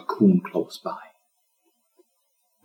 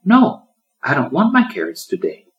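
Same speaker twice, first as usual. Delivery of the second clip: put-on high, pouting little girl voice; high whiny no to carrots; whiny child refusing; 9 semitones higher, 5 dB louder than usual. A narrator's reading. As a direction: refuse like a stubborn small child. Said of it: "she replied".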